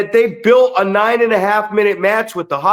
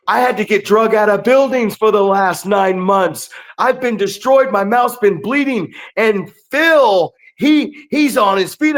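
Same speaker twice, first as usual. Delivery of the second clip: mock disbelief; 5 semitones higher than usual. Retelling his own commentary call.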